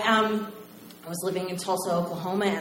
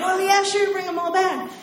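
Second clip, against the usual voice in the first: higher, louder cheerful yes; easygoing singer; 10 semitones higher, 4 dB louder than usual. Retold or imitated. Singer telling fan to bring friends, cheerful. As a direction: toss it off, generous and bright.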